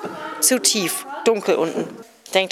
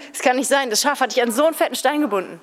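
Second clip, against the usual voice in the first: stranger's retort; 4 semitones higher, faster than usual. Acted. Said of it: "Sagt er".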